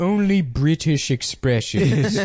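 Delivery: slow mock gamer accent; That Sodding Gamer. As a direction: drag the words out in a made-up accent. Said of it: "this weird accent he made up".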